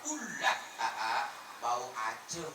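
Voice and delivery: lightly voiced coy bride, slowly drawn out; sweet new bride. New bride sweetly stopping husband. (pamajikan anyar nyaram salaki, ngagaleuh)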